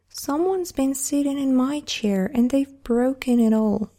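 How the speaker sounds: a little bear's mock wail; crying baby bear. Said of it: "cried the baby bear".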